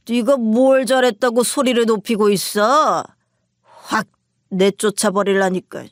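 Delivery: a hint of a slurred drunk husband yelling; lightly voiced drunk man scolding, falling at the end; drunk shouting. Drunk husband snapping back at his wife on the phone, mildly slurred. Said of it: "술에 취한 목소리로 저에게 큰 소리를 냈어요".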